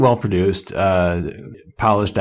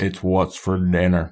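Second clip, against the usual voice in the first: a slower, lighter take on the ad line; Sam Elliott impression; slower than usual. Repeating the beef ad line for friends, lightly drawled. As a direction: drawl the slogan lazily. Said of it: "Sam Elliott's like".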